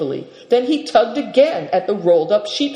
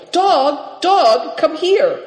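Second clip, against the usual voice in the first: high, raised distant call; calling the dog; 11 semitones higher, 4 dB louder, much slower than usual. A narrator's reading. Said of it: "Seven Stars began calling".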